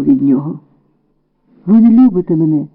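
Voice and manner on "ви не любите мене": plain reading voice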